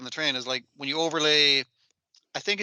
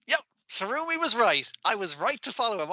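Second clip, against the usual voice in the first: mock vindication; 7 semitones higher than usual. Voices character feeling vindicated.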